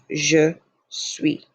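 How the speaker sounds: "je suis" with the last S left off; French "je suis", no final S sound; silent final S. Shown as a demonstration. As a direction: say "suis" ending on the vowel, S silent. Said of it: "do not pronounce that S".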